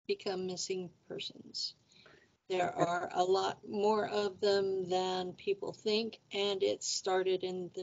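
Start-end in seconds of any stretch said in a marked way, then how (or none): 0.1-1.7 hushed, conspiratorial aside; whispered. Real, not acted. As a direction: drop to a soft whisper. Host lowers voice on ominous fact.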